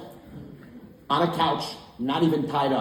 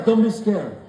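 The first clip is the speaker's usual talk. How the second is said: put-on Italian accent; 4 semitones higher, 4 dB louder, slower than usual. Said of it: "So he goes".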